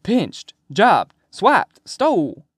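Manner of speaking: gleeful list, each word popping high; happily reeling off slang; happy. A narrator's reading. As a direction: punch out each word with high, loud delight. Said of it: "he says happily".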